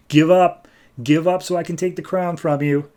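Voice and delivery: lightly acted hero demanding surrender; retold demand. Aquaman tells beaten Orm to yield, retold demand.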